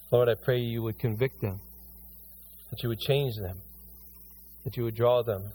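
earnest pastor praying over the church; pastoral prayer. Acted. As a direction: pray over the congregation. Leads congregation in prayer.

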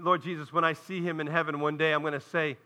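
low, hushed retelling of the preacher; a hint of the old Southern preacher's wonder; softly quoting old preacher. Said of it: "Southern Baptist preacher".

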